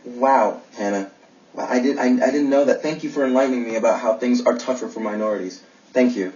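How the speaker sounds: dry mock gratitude; sarcastic. Man to his date after her death row lecture, sarcastic. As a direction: thank them with understated sarcasm. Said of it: "I can't tell if you're being sarcastic".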